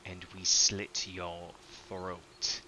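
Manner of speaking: slightly twanged captor. Acted. Hooded figure threatening a captive at knifepoint, slightly twanged menace. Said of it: "a slight, slightly twanged".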